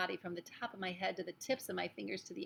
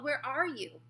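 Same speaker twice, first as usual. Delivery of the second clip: raised, high searching call; 6 semitones higher, 5 dB louder, slower than usual. A narrator's reading. Mouse boy searching for his friend, calling out. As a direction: call out the question, voice lifted. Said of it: "I called".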